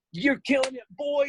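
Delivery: mock-hyped Flav greeting; Flavor Flav hype. Flavor Flav hyping him up.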